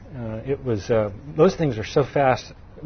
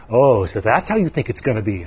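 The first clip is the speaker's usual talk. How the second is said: a lightly snarled threat from a mean partner; low mock snarl, menacing; 4 semitones lower than usual. Imitating evil partner Steve on the phone, mild snarl. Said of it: "he talks with a snarl in his voice".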